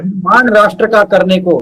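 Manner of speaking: measured verse with pauses between phrases; poem recital. Acted. Poet reciting his own verse to the host, measured poetry recital.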